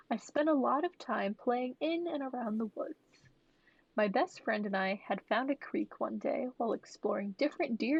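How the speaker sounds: even, measured storytelling read; story narration. A narrator's reading. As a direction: read a childhood account aloud. Reads a posted story aloud.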